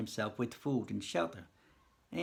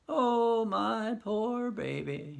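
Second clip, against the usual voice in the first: crying; 9 semitones higher, much slower than usual. Acted. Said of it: "busts out crying as if the heart will break".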